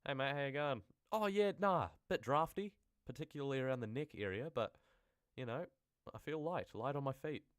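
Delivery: high, loud chirpy ghost chatting. Acted. Ghost chatting to a mate, cheerful high voice. Acting a ghost's chat reply.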